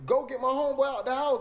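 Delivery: high-pitched, pressing plea; reenacted urgent begging; retold insistent demand. Retold repeated demand to medics.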